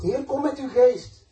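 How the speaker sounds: loud, slow, high pleading cry; crying out to God. Pretend. Preacher voicing a sinner crying out to God, loud slow plea. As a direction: call out to God, drawn out and desperate. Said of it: "Dat je schreeuwt naar God".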